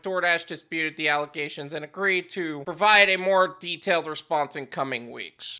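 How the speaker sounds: even, low-key reading of a report; article read-aloud. Real, not acted. Host quoting a news article to viewers, measured reading. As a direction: read it out, sinking low at the end.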